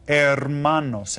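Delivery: hermanos slowly, starting straight on the vowel; silent H. Shown as a demonstration. Teacher naming brothers and sisters, hermanos with silent H. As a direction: say hermanos as er-ma-nos. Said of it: "that H is still silent".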